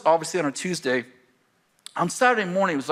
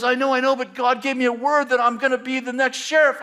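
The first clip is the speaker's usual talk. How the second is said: eager insistence; 10 semitones higher, 4 dB louder than usual. Retold or imitated. Friend insists on God's word.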